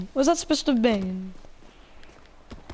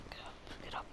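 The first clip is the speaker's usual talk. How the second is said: whispered get up; urgent whisper; 22 dB quieter, much faster than usual. Real, not acted. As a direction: hiss it urgently.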